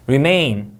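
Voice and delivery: REMAIN with the second syllable hit; REMAIN, weight on the last syllable; second-syllable stress. Shown as a demonstration. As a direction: punch the MAIN of REMAIN. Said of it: "이음절 강세".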